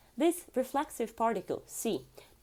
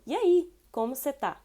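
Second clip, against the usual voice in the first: casual greeting; 4 semitones higher, 5 dB louder than usual. Shown as a demonstration.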